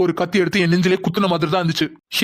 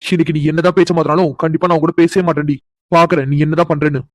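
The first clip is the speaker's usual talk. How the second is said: angry inner rant; 6 dB louder than usual. Acted. Husband fuming to himself.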